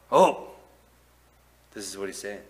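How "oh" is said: sudden high loud "Oh!"; mock startled gasp. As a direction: jump like you just got caught. Caught in the cookie jar.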